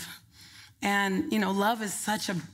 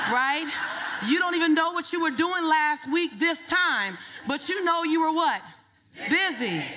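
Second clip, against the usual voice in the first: laughing, rising energy; 4 semitones higher than usual. Real, not acted. Rallying laughing audience.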